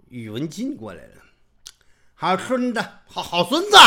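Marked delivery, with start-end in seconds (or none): 2.1-3.8 high, loud mocking praise; gloating Yuwen Jin. Yuwen Jin gloats at the kneeling brothers, high and loud. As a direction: crow over them like a smug bully.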